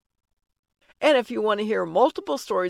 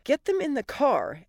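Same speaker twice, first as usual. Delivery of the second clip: higher, urgent order; commanding; 5 semitones higher than usual. Acted. Wife ordering husband to get kids moving, commanding. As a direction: take charge with a firm command. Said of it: "Allie commanded".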